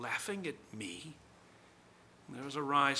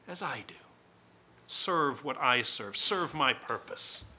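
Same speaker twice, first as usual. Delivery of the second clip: loud, forceful command; commanding tempter; 5 dB louder than usual. Acted. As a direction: order him to serve.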